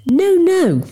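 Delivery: high, hasty defensive denial. A narrator's reading. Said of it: "he has me on the defensive".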